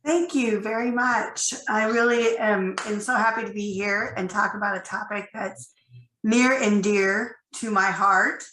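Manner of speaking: croaky voice from a cold; hoarse, croaky cold voice. Real, not acted. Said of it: "apologize for my croaky voice".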